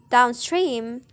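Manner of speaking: "downstream" with main weight on STREAM; stress on second word. Shown as a demonstration. Student showing adverb compound, "downstream" stressed on STREAM. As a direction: lighter down, stronger STREAM in "downstream". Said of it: "The primary stress is placed on the second word".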